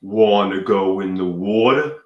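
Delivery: lightly put-on Brooklyn accent, slightly low; fake Brooklyn accent. Asking a supermodel into the pool, fake Brooklyn accent. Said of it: "talking to her in a fake Brooklyn accent".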